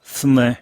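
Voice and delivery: "스물" run together as one quick word. Shown as a demonstration. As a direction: blend into a single word "스물". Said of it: "한 단어처럼".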